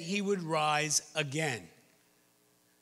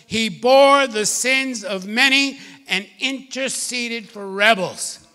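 steady formal Bible reading, swelling louder near the end; scripture reading; 3 dB louder than usual. Acted. Preacher reading Isaiah to the congregation, building to proclamation. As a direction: read the passage like a proclamation. Reads Isaiah fifty-three aloud.

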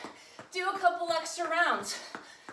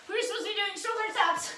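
higher, laughing through the words; laughing at mistake; 8 semitones higher than usual. Real, not acted. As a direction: giggle at your own mix-up. Realizes mixed-up exercises.

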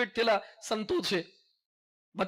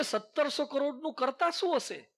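mock naive boy; 4 semitones higher than usual. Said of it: "મને કે".

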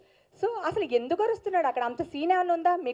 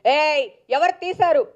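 loud, slow, stressing ఎవరు; harsh demand; 2 semitones higher, 6 dB louder than usual. Shown as a demonstration. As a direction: bark out ఏయ్ ఎవరు తీశారు as a rude demand. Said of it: "అని లేదు అక్కడ". (గట్టిగా గద్దించి అడగడం)

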